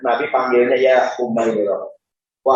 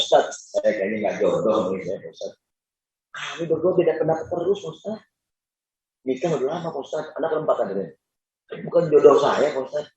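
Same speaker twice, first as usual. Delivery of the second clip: whiny husband; 6 dB quieter than usual. Retold or imitated. Complaining husband to ustaz.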